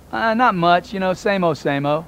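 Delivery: put-on half-hearted, dull same old answer; bored mundane reply. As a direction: play a bored nobody with nothing to say. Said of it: "These are normal responses from people".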